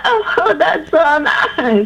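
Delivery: imitating her drawn-out, sugary "Oh, that's so nice", the Oh jumping high; mock twang. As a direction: tease her twang, slow and sweet. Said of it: "So I can't twang".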